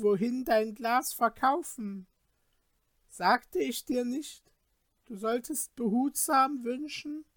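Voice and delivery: high, reproachful little glass man; scolding Glasmännlein. Acted. The Glasmännlein rebukes ungrateful Peter, high and reproachful. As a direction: scold him from high up, like a sprite. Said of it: "entgegnete das Glasmännlein".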